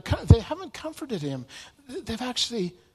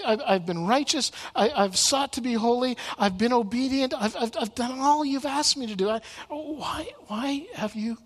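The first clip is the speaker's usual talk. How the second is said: higher, pleading questions, a touch of anguish; anguished confusion; 5 semitones higher than usual. Retold or imitated. Job crying out to God, mild anguish. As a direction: ask why as if hurting. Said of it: "this anguish and there's this confusion".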